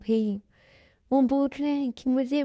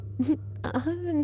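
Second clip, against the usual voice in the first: sob; 5 semitones higher, 4 dB quieter than usual. Acted. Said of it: "रोना बंद करो".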